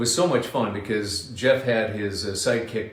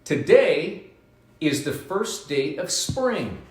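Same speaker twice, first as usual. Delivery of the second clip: teasing reveal; 6 semitones higher, slower than usual. Shown as a demonstration. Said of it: "do you know what today is".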